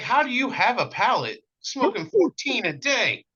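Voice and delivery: high, loud disbelief; incredulous question. Retold or imitated. Cigar guy amazed at a fourteen-a-day smoker, high and incredulous. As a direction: ask it like you can't believe it. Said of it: "I'm like".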